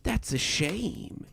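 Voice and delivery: drawn-out, bored delivery; slow, indifferent sympathy without any mourning. A narrator's reading. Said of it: "sounding bored rather than mournful".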